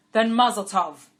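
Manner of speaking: joyful cheer. A narrator's reading. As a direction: celebrate the match out loud. Father blesses the match.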